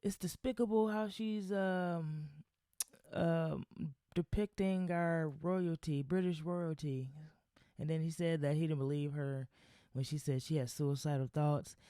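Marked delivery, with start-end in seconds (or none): 0.0-7.1 higher, pompous mock outrage; mock British pundit, indignant; mocking Piers Morgan. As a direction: lampoon a huffy TV host. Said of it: "He's like".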